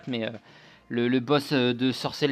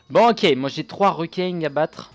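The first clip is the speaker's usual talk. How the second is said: southern French; 4 semitones higher, 7 dB louder than usual. Pretend. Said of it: "je prends un accent du sud".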